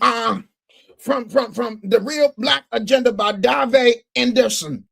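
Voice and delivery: halting, stammering radio read; mock a host who can't read aloud; lightly voiced fumbling announcer; stumbling bad reader. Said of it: "it sounds like".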